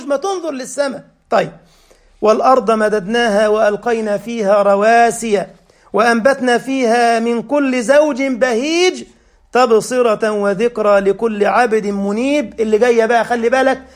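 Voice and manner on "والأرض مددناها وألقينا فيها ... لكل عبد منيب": melodic tajweed chant; chanted Quran verse in a sermon; Quran recitation. Acted. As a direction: recite the verse with measured cantillation. Recites Surah Qaf.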